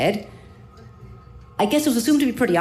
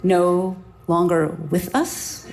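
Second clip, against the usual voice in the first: slow, bewildered echo of his words; stunned disbelief; slower than usual. Real, not acted. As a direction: repeat it slowly, not taking it in.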